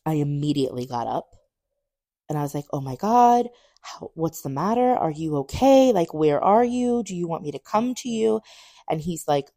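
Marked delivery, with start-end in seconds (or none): 2.7-8.4 higher-pitched worried questioning; anxious concern. Retold or imitated. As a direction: act out urgent, fretful questions. Retold anxious questions to boyfriend.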